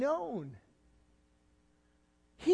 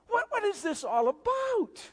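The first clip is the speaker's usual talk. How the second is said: searching cry; 8 semitones higher than usual. Retold or imitated. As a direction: cry the question out to the congregation. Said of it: "you have to ask the question".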